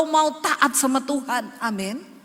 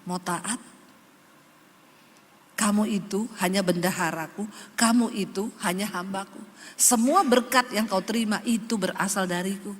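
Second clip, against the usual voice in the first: voice of God; 5 semitones lower than usual. Retold or imitated. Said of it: "Tuhan ngomong".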